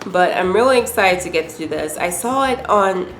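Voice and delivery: speaking through a head cold; stuffy voice from a cold; sick voice. Real, not acted. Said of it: "my sick voice".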